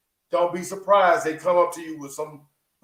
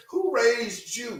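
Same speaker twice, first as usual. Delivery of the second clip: higher, hammed-up old folks' interrogation; mock elder questioning; 6 semitones higher, much slower than usual. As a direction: play the nosy elder asking who raised you.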